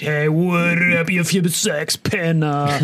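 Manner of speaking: slow cocky pilot announcement; airline pilot announcement. Pretend. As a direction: drawl it like a cheeky captain. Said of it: "meine Pilotendurchsagen wären mega witzig".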